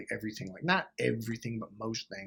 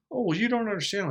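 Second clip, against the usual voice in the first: high-pitched imitated excuse; mock protest; 8 semitones higher, faster than usual. Excuse-maker brushing off a fed-up partner, mock protesting. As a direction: mimic a put-upon protest, pitched up.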